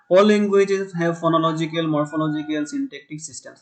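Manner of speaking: measured classroom read of the quote; slow definition reading. Shown as a demonstration. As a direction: let each word land for the notes. Reads English definition aloud.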